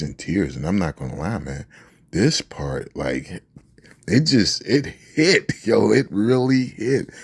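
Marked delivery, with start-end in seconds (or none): 4.1-7.1 higher, louder and slow, half-laughing; overwhelmed outburst. Real, not acted. Fan reliving the tearful scene, loud overwhelmed exclamation. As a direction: let it burst out like it knocked you over.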